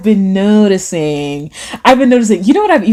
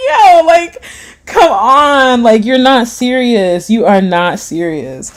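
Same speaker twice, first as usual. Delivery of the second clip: incredulous; 3 semitones higher, slower than usual. Retold or imitated. Mock disbelief, high and loud.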